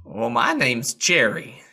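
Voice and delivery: slow Southern drawl for the horse; a lazy Southern horse introducing himself; southern accent. Acted. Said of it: "we're slipping into a southern accent here".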